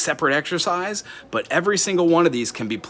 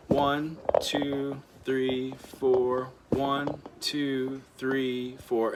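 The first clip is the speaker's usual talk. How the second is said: steady count; 4 dB quieter, much slower than usual. Shown as a demonstration. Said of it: "just keep the one Two".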